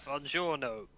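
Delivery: playful Italian-accent attempt; mock Italian accent. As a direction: switch into a put-on Italian accent. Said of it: "that's a totally different accent".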